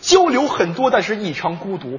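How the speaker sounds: mock poem recital. Reflecting on phones to his partner, solemn poem recital. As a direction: declaim it as earnest verse.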